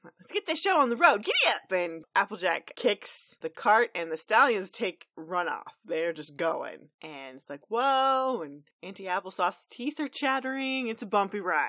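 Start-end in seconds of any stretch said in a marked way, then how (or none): 0.0-1.7 rousing yell. Acted. Applejack kicking off cart ride. 7.7-8.4 startled whoa. Acted. Ponies on bumpy cart.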